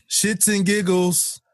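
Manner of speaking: drawn-out. Real, not acted. Recovering from a laughing fit.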